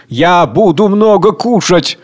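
loud, high and slow gloating cry; ecstatic squeal. Acted. Hungry rioter squealing with delight at food. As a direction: drool over the feast. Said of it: "Восторженный визг".

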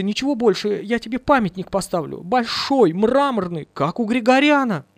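high pleading wail to a dead man; high widow's wail; wailing plea. Acted. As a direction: beg him, voice high and desperate. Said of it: "бесстрашно вопить".

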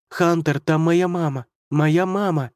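breathless pleading. Acted. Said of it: "только и твердила Иван, задыхаясь".

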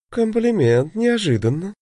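a hint of femme fatale purr. A narrator's reading. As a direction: purr it like a seductress. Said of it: "промурлыкала она".

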